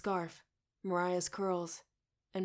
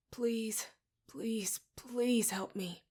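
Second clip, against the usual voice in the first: pleading; 3 semitones higher, much slower than usual. A narrator's reading. Pleading to ancestor.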